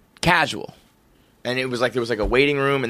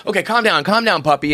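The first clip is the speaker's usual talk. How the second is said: raised-pitch mock owner settling a puppy; pleading to calm; 5 semitones higher than usual. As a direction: try to talk a wild puppy down. Owner soothing a wild puppy.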